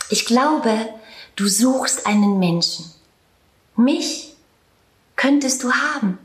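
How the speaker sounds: gently smiling. Acted. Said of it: "lächelte ein bisschen".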